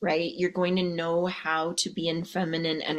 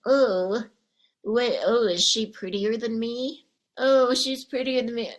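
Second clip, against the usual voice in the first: jealous comparing; 3 semitones higher than usual. Retold or imitated. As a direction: fret jealously, pitch up. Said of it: "being that little snake".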